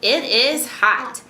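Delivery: measured storybook reading, voice going up and down; expressive read-aloud. Shown as a demonstration. Mother models paired reading for her child, expressive and measured. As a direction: read along clearly so a learner can follow. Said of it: "reading just a little bit louder than she is".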